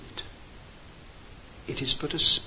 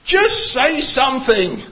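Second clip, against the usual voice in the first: a loud, exasperated teacher's shout, higher and slow; 8 semitones higher, 7 dB louder than usual. Retold or imitated. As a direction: yell it at the stuck shepherd. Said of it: "one of the teachers just shouted out".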